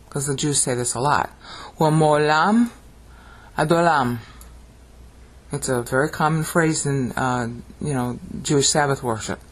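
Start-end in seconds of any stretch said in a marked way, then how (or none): 1.8-4.2 thundering Hebrew. Shown as a demonstration. Teacher reciting what Jews say often, thundering. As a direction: intone each phrase like a liturgical call. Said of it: "the thundering Hebrew".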